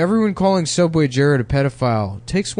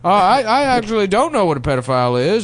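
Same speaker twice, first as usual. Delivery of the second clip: judge. Pretend. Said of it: "as a judge".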